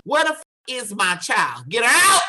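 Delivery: mother's demand, rising to a high, loud yell; acted demanding yell. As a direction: build up to a high shout on "out". Mother demanding daughter's release at jail.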